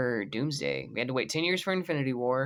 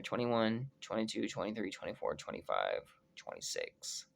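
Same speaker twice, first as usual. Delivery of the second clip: fading count; 4 semitones lower, 10 dB quieter than usual. Real, not acted. Vlogger counting years until Doomsday, fading to a whisper. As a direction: count down the years, dropping lower and softer to a whisper.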